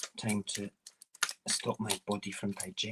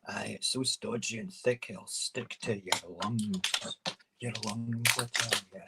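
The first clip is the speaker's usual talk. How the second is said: Scottish phrase; 2 semitones higher than usual. Shown as a demonstration. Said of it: "That's a Scottish phrase".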